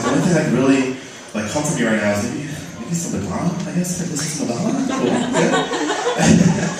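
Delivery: lightly hammed inner monologue; mock inner voice. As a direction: muse dreamily then squeal. Inner voice turning flamboyant.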